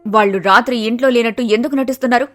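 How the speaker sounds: loud, heated threat; angry accusation. Acted. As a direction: blaze at the mother-in-law's crime. Inspector vows revenge on Kanthamma.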